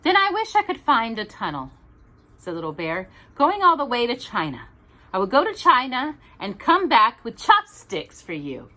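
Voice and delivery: fast, eager little bear. Acted. Little Bear wishes for a tunnel to China, eager and quick. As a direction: rush the wish out excitedly.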